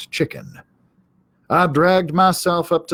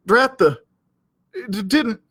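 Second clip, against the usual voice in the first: surprised; 8 semitones higher, 4 dB louder than usual. Acted. Hank realizes he's duped.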